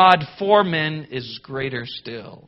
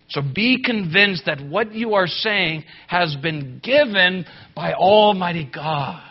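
usual speaking voice

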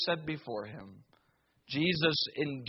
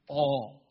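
all set apart and leaned on; stressed word all; 3 semitones lower than usual. Shown as a demonstration. Preacher singling out the word all, stressed and isolated. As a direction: hit all on its own. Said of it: "And I emphasize that word".

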